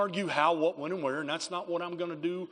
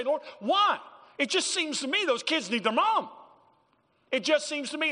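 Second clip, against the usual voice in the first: pleading prayer; 12 semitones higher, 5 dB louder than usual. Retold or imitated.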